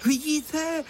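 high, eager cry of delight; boy calling out thrilled about the kite; excited shout. A narrator's reading. Little boy Honzík excitedly showing the smiling kite. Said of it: "vykřikl vzrušeně Honzík".

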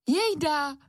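exclaimed. Acted. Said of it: "vykřikla maminka znovu".

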